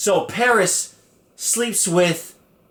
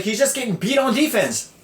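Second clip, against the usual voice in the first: lightly voiced little girl, higher pitch; Hayden Panettiere; 6 semitones higher than usual. Little girl explaining the benching, lightly imitated child. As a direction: pipe up a bit like a small kid. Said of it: "Hayden Panettiere's little ye-, little tiny ass is like".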